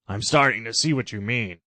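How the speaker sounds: a hammed-up Trump voice; objecting Trump. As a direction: argue she's his rival. Trump understands.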